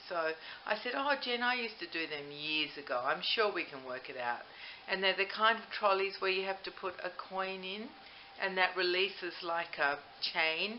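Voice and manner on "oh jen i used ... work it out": ordinary talk, nothing marked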